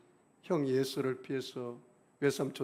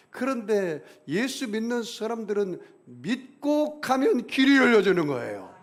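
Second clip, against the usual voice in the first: loud, rising preacher's call; forceful preaching; 6 semitones higher, 8 dB louder than usual. Acted. Pastor preaching to his church, loud and forceful. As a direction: drive the point home to the congregation.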